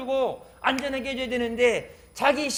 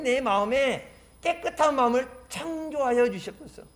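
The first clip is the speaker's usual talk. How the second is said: pleading prayer; 3 semitones higher than usual. Acted. Penitent begging God for a clean heart, pleading. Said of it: "자기의 마음을 찢으며 하나님 앞에 엎드려서".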